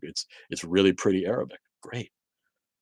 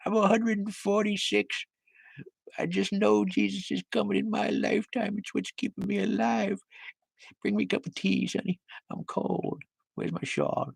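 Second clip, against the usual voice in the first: put-on much higher, thin old-lady voice fading to a whisper; high old-woman croon, whispered at the end; ancient great-grandmother; 14 semitones higher than usual. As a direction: play a 146-year-old granny waiting for Jesus. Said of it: "great grandmother has been waiting".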